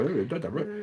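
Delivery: a hint of a southern wrestler's drawl, rising on Ooh; Dusty Rhodes drawl. Imitating the wrestler for a friend who never heard him, light drawl. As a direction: lightly ham up the wrestler's name. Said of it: "That's how he talked".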